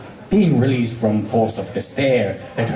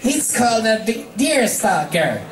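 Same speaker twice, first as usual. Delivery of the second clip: flat reply; 8 semitones higher than usual. Acted. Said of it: "she replied flatly".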